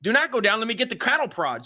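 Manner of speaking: telling his wife not to go down, mock alarmed; alarmed pleading. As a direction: stop her in a hammed-up panic. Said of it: "And I'm like".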